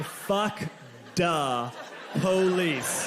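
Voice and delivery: slow, drawn-out mock chant; group yell retold. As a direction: chant it word by word like a crowd.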